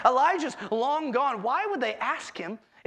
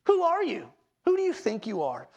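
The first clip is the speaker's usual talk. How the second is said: confronting challenge; 3 semitones higher than usual. Retold or imitated. Messengers confronting John.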